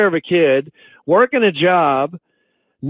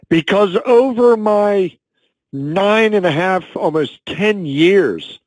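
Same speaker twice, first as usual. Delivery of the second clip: slow and halting, voice thick with feeling; pushing the words out through tears; choked up; 3 semitones higher, slower than usual. Real, not acted. Sales director describing what the product means, choked up. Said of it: "I'm getting a little choked up".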